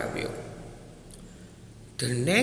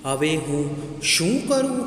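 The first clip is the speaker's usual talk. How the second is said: lightly voiced distressed tree. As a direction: lightly act a tree at a loss. Wailing tree asks helplessly.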